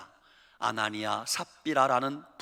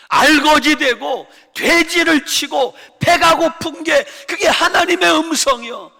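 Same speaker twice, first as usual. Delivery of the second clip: fervent preaching; 11 semitones higher, 11 dB louder than usual. Acted. Preacher crying out to his congregation. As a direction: preach it with full fervor.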